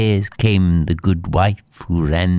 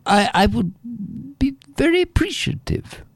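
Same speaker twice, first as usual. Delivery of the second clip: high, sugary false politeness; sly innkeeper woman; 12 semitones higher, faster than usual. Acted. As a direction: coax him sweetly, hiding a plan. Innkeeper asks sweetly.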